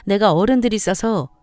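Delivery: lightly acted angry dressing-down; losing patience, with swooping emphasis; scolding sister-in-law. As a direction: scold a cheeky younger in-law.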